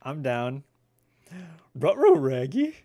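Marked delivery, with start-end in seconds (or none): 1.8-2.8 high, loud cartoon dog yelp; exaggerated dog-talk, pitched up and pushed hard; Scooby-Doo. Gamer repeats a dog impression, louder, higher and hammed up. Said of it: "That was a terrible Scooby-Doo".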